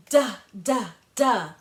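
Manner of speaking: "Duh, duh, duh" as short, crisp d sounds; letter sound. Shown as a demonstration. Teacher modeling the D sound for kids, crisp and clear. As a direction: tap out "duh" three times. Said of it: "let's say it together".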